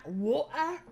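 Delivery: slow, halting try at a Scottish water; Scottish accent. Shown as a demonstration. Chat asked for water in a harsh Scottish accent, halting. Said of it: "in a very harsh British or Scottish accent".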